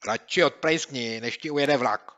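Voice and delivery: snide retort. Acted. Boy telling the bully to scram, snide. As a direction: shoot back sarcastically. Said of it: "radil mu Měouk".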